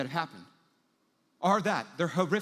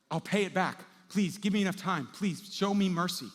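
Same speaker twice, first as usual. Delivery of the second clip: acted plea, a bit higher; mildly desperate begging, pitch raised; 4 semitones higher, 3 dB louder than usual. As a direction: plead for mercy, stretching the last request. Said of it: "But the servant's begging".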